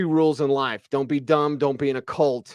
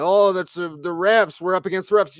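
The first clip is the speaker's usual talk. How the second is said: mock fan complaint; 4 semitones higher, 4 dB louder than usual. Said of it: "Everyone coming in".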